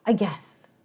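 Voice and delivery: imitated sulky, reluctant agreement; grudging. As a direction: give in grudgingly with a huff. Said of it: "he sees this attitude from her".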